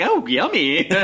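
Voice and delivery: sarcastic. Retold or imitated. Sarcastic quote about Kraft singles.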